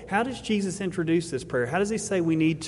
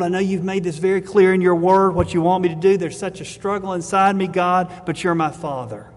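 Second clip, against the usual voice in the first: pleading prayer, swelling louder then easing; acted earnest prayer; 4 dB louder than usual. Struggling believer to God as Father, acted heartfelt plea. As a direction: voice a believer wrestling openly with God.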